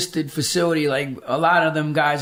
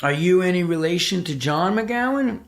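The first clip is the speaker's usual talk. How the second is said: a touch of a surprised nurse; nurse voiced; 5 semitones higher than usual. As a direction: ask it like a surprised nurse, a little higher. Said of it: "the nurse goes".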